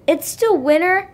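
surprised gasp. A narrator's reading. Little Bear seeing snow in the woods, gasping in surprise. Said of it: "gasped Little Bear".

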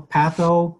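patho and physio drawn out slowly; slow syllable demo. Shown as a demonstration. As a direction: break the word into slow chunks. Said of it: "Do it slowly".

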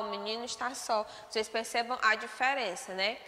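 ordinary talk, nothing marked

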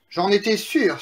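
mildly triumphant exclamation; exclaiming. Acted. Eldest pig sees house hold against wolf, mildly triumphant. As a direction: exclaim it, pleased to be right. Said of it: "s'exclama l'aîné des trois petits cochons".

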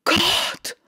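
hoher erschrockener Ausruf; entfährt ihr vor Schreck. A narrator's reading. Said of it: "rief die Marquise". (Ausruf der Marquise, hoch und erschrocken)

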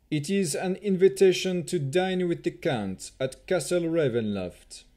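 1 cold elven chamberlain. A narrator's reading. Rahadin voiced in narration.

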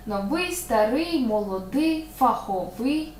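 новий, старий, молодий, фаховий each stressed on И, slowly. Shown as a demonstration. Teacher lists adjectives with the same stress. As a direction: spell out the stress on И, word by word. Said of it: "Все буде на «и»".

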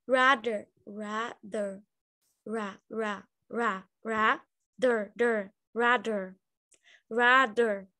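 rather separado sílaba por sílaba; ra, ra, der, devagar e separado; split into syllables. Shown as a demonstration. (sílabas separadas)

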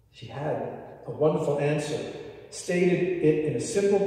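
usual speaking voice

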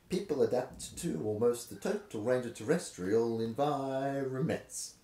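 exaggerated sing-song reading pattern; lilting ups and downs, Seuss style; rhythmic reading. Shown as a demonstration. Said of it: "I've gone into a ridiculous pattern".

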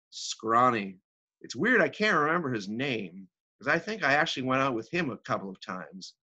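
lightly acted wealthy divorcee reminiscing; theatrical monologue, wry and animated; Agatha. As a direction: needle an old companion, then drift into amused memories.

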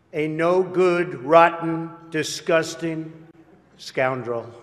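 slow, drawn-out string of insults; deliberate retold condemnation, falling away on the last word; mock denunciation. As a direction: relish each insult one at a time, mock-scornful. Retelling politicians' sudden denunciation of him.

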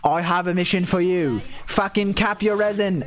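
lightly voiced British streamer; a hint of British impression; Atsu. Atsu hands the streamer a mission, mock British voice. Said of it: "And he said".

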